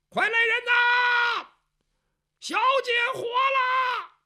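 long drawn-out high shout across the yard; calling out loud. Acted. Bai Yutang shouting to the household that the young lady lives, drawn-out yell. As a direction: yell it slow and far so the whole house wakes. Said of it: "在院子里边就喊".

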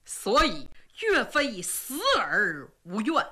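a condemned hero lecturing his men; solemn marshal. Acted. 岳飞訓诫部下. (低沉庄重的岳飞)

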